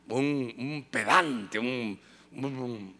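slow, low, drawn-out pedant voice; lightly mocking snob. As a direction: drag it out like a snob. Mimics a pedant, dragging words.

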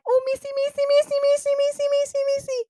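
high, excited calling out to the teacher; eager kid calling out. Retold or imitated. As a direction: call out eagerly like a keen first-grader. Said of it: "I raised my hand really high".

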